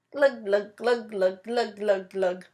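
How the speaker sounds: fish glugs. Acted. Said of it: "he mouths".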